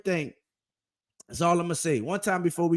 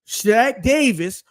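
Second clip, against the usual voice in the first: drawn-out hype call; 5 semitones higher, 4 dB louder, much slower than usual. Real, not acted. Hyping up a favorite player.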